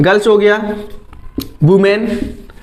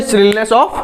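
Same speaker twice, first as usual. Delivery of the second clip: slow dictation; much slower than usual. Shown as a demonstration. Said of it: "dictating definition".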